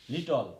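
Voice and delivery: লিটল said "li-tol", stopping on the l; final "ল" sound. Shown as a demonstration. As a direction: say লিটল loudly with -le as "ol". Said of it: "ল উচ্চারণ হবে".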